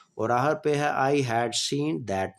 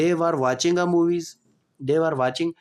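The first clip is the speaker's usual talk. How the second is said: slow, clear dictation pace; slow classroom example sentence; slow example read; slower than usual. Shown as a demonstration. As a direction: spell it out slowly for students. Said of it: "teacher reading example sentence".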